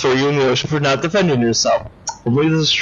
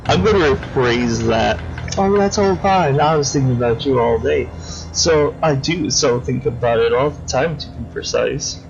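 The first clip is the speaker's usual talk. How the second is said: lightly voiced creepy killer, silky and mocking; creepy villain. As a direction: purr over the victim like a polite psychopath. Crosscut taunts the player.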